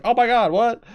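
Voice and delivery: high, loud mock disbelief; shocked gasp. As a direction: act stunned by the obvious murder. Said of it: "And she's just like".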